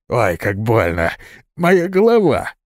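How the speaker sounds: a hurt man clutching his head; moaning in pain. Acted. (стон от боли, срывающийся на высокий крик)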